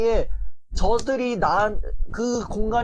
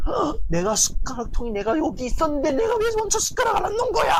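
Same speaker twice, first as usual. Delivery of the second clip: panicked self-blame; 8 semitones higher, faster than usual. Retold or imitated. Anxious person scolding herself over a spoon, in a high shocked yell. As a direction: shriek at yourself over a tiny slip. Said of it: "이러면서 막".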